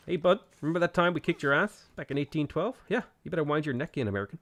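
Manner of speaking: mock Canadian accent, lightly done; taunting the Americans in a light Canadian accent. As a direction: streamer teasing America in a put-on Canadian accent. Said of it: "Your Canadian accent needs work".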